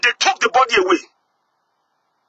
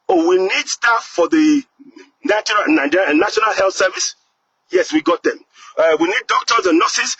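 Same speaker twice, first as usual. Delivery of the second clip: mocking officials; 6 semitones lower than usual. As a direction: sneer at them as you voice their request. Mocking Western governments' demand.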